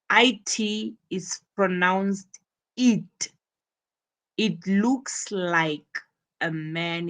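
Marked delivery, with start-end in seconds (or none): 0.1-3.3 "it": short i then a clear t; pronounced it. Shown as a demonstration. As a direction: say "it" slowly with a short i. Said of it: "the word is it".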